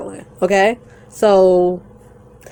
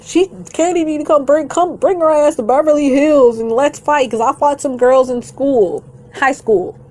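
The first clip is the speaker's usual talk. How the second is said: lightly mocking higher-pitched quote; imitating a rival; 6 semitones higher than usual. Vlogger retelling a rival's video challenge to fight, in a lightly mocking high voice. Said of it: "So in the video, she's talking about".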